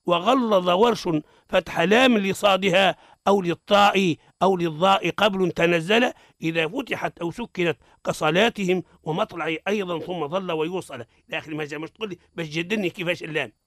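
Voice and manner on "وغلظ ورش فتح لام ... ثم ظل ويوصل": verse recitation. Shown as a demonstration. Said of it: "من قول ابن جزري".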